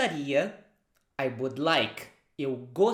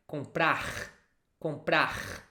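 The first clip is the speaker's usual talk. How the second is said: Rio de Janeiro comprar with a throaty final r like kh; Rio accent; slower than usual. Shown as a demonstration. Teacher imitating a Rio de Janeiro comprar. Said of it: "somebody from Rio de Janeiro".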